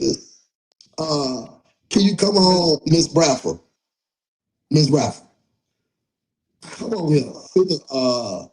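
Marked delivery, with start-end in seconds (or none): 1.9-7.3 calling out. Real, not acted. Calling someone on live.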